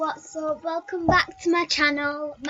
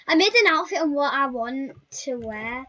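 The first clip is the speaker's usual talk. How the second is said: overwhelmed; 4 dB louder than usual. Real, not acted. Overwhelmed with joy.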